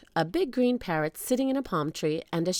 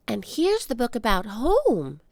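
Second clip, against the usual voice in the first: put-on girl voice; 4 semitones higher than usual. Annie voiced by narrator.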